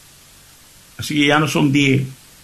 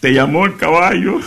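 punchline through laughter; 4 semitones higher than usual. Retold or imitated. Wife's punchline.

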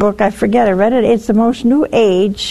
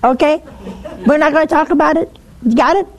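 mock exasperation, fast and clipped on the questions; getting mad; 4 semitones higher, faster than usual. Mother, tired of the same apology, mock mad. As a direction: act fed up with the repeated apology.

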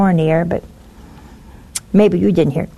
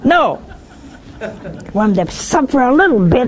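laughing; 3 semitones higher than usual. Retold or imitated. Widow's answer retold, laughing.

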